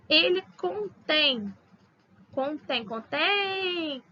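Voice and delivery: "contém" slow, last syllable "tém" stressed; stress on final syllable. Shown as a demonstration. Teacher drilling oxytone stress for students. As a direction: repeat "contém" hitting the end. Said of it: "é oxítona terminada em E".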